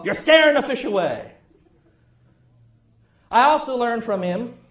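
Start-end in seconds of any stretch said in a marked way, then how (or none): 0.0-1.3 granddad yelling. Retold or imitated. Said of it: "Granddad will always yell".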